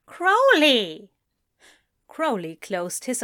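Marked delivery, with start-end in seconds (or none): 0.1-1.1 high, loud call of the name; chiding exclamation. Acted. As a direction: scold him with one raised word. Partner chides evasive reply.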